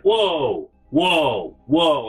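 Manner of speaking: mock-startled backing off; taken aback. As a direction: imitate a drunk protesting in surprise. Drunk reacts to being yelled at.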